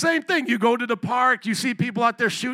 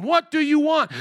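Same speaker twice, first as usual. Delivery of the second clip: surprised question; 5 semitones higher, 4 dB louder than usual. Retold or imitated. Jesus questioning the two followers.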